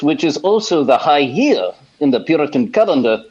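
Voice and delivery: put-on lightly Welsh, old preacher voice; a hint of a Welsh pulpit voice; Welsh preacher impression. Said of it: "Doctor Lloyd Jones".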